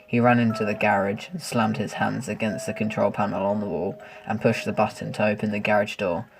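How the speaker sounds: narrator voice. A narrator's reading. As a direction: read it like a spooky tale. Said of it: "how do you like my, uh, narrator voice".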